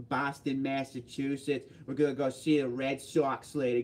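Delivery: lightly put-on Boston accent; mock Boston local accent. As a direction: play up a Boston accent a little. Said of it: "they make me do the Boston accent a lot".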